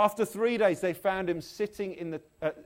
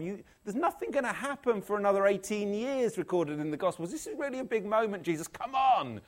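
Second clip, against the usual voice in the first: higher-pitched mild exasperation; impatient; 4 semitones higher than usual. Acted. Preacher voicing a puzzled reader urging Jesus on, impatient. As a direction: urge him on, impatient and incredulous.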